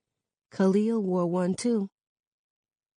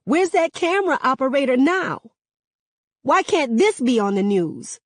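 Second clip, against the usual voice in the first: loud, high protest at the cops; raised, outraged bystander voice; indignant shout; 8 semitones higher, 4 dB louder than usual. Acted. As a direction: call out for the cameras, outraged. Angry man shouting at cops.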